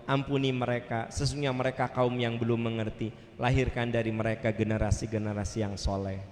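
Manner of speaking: low, measured plea to God; gentle, subdued prayer; Prophet praying. Acted. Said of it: "Nabi katakan".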